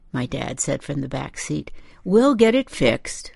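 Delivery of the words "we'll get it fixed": dad's soothing promise, pitched up; gentle reassurance; reassuring. A narrator's reading. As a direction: reassure her from the back seat. Dad reassures the upset mother.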